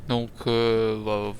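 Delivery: gauze pad in mouth; after wisdom teeth. Real, not acted. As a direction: talk around cotton in your cheek. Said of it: "un tampon dans la bouche pour le sang".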